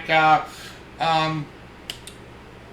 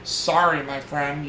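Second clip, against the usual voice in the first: saddened apology; 4 semitones lower, 4 dB quieter, slower than usual. Retold or imitated. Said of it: "look a little saddened".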